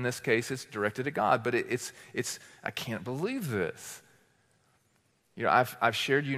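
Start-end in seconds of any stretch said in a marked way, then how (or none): 2.6-4.0 softly muttered complaint; low-volume, indirect griping; passive-aggressive grumble. Acted. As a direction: grumble it under your breath. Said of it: "It's under your breath".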